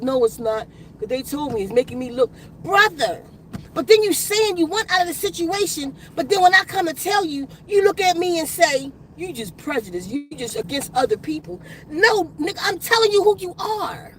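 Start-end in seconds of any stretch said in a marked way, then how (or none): 0.0-2.3 sulky denial. Acted. Voices the doubting brother. 9.2-11.6 dismissive accusation. Acted. Voices the doubting brother.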